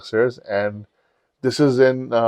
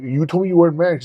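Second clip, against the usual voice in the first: shocked protest; 6 semitones higher than usual. Retold or imitated. Confronting married lover.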